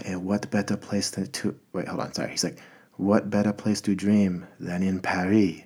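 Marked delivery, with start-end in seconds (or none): 0.1-1.6 attempted French accent, softly. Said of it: "do my best, um, you know, French voice". 3.0-5.6 put-on slow, tentative French accent. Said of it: "you know, French voice".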